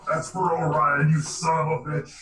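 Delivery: punchy retake in a character voice; Starscream. Acted. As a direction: throw it out as a cartoon villain's vengeful taunt. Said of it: "It actually sounded like Starscream from Transformers".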